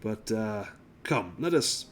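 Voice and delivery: lightly voiced gasping gentleman; nobleman after a strong drink. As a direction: catch your breath, then recover politely.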